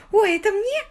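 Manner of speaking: высоко и громко, радостным визгом; радостно взвизгнуть при виде цветов; радостный взвизг. Acted. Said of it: "радостно взвизгнула". (Сью радостно взвизгивает, увидев цветы)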